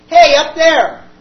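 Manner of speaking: long, loud call upward. Acted. Mitchell calling to a jumper above, loud. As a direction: hail someone high above.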